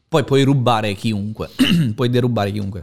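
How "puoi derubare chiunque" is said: talking while choking; words squeezed out through a choke. Real, not acted. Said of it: "scusate, mi sto strozzando".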